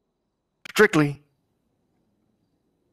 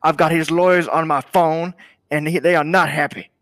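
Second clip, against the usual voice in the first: loud, high furious outburst; intense; 4 semitones higher, 5 dB louder than usual. Acted. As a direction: blow up at him in anger. Boss furious about a rapper's leaked vocals.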